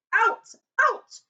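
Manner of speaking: high loud bellow; furious shout. Acted. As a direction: bark it as an order. Vernon throws Harry out.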